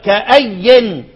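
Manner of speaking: كأي said "ka-ayyin"; tanween with kasra. Shown as a demonstration. Teacher explaining the grammar, كأي slow with a final n. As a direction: draw out كأي slowly and end it on "yin". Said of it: "فهي مجرورة منونة".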